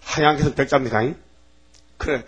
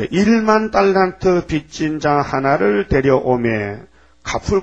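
slow, measured Bible reading; solemn scripture reading; slower than usual. Acted. Preacher reads Matthew to the congregation, slow and solemn. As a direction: read each word of scripture slowly. Reads parable text aloud.

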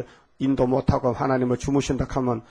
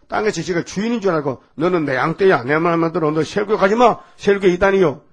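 a hint of a domineering pastor, pushing louder; mock bossy pastor; 4 dB louder than usual. Preacher mimics a pastor bossing his flock, mock stern. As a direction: lord it over the flock.

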